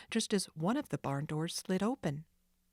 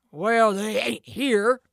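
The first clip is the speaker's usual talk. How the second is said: slow, loud, gruff retort; angry thug; 4 semitones higher, 11 dB louder, slower than usual. Acted. Sid snapping at Jake, angry. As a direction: spit it out slowly.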